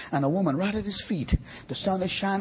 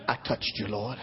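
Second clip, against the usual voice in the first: humble confession; 10 semitones lower, 8 dB quieter than usual. Acted. Healed woman confessing to Jesus.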